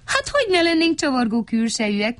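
high, amused reply; lightly acted cheerful retort; smiling. A narrator's reading. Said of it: "mosolygott Mikka Makka".

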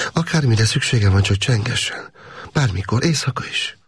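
lightly voiced caring woman; woman's voice. A narrator's reading. Woman's voice in story. (készséges női hang)

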